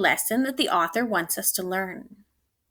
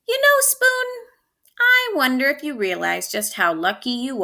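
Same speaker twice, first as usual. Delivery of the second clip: tender mom. Acted. Mom tucks Spoon in.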